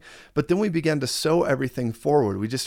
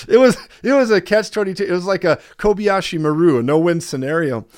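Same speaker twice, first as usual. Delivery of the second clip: louder and higher, fired up; excited; 5 semitones higher, 6 dB louder than usual. Real, not acted. Pastor exclaiming to the congregation about the trap.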